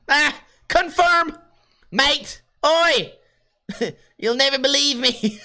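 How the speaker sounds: high, drawn-out mock Aussie calls; Australian accent. Shopper querying a huge bill, high mock Australian accent. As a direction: call it out as a cartoon Australian. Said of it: "love my Australian accent".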